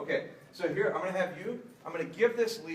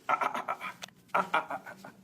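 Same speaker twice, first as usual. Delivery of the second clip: correcting ah ah; faster than usual. Real, not acted. Correcting the puppy.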